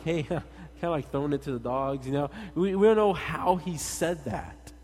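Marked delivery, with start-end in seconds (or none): 0.0-2.1 light "hey" breaking into a chuckle; playful tease. Retold or imitated. Preacher imagining Jesus joking with the woman, playful tease. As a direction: toss it out jokingly with a laugh. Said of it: "if he was kinda like".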